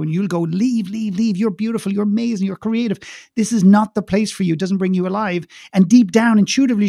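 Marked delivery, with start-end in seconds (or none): 0.4-5.5 higher-pitched string of encouragement; a milder imitation of an insistent father; retold urging. Father telling daughter to leave, mildly urgent.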